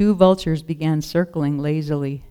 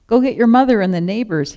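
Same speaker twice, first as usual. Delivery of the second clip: louder, higher, eager instruction; happy calling out; 5 semitones higher, 5 dB louder, faster than usual. Acted. Shepherd sends his sons for the neighbours, happy call. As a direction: send them off with raised voice.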